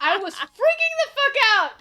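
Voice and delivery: laughing through the words; giggling while she gushes. Real, not acted. Laughing about loving the book.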